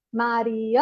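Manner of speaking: "Mariana" with the second-to-last syllable "a" held long; stressed syllable stretched. Shown as a demonstration. Teacher showing children the strong syllable, "Mariana" with its "a" stretched. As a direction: draw out the stressed "a" before "na" in "Mariana". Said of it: "perceber essa sílaba mais forte".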